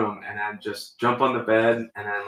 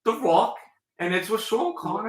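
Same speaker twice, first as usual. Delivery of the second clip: put-on mid-Atlantic accent; 10 semitones higher, 4 dB louder than usual. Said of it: "mid-Atlantic accent".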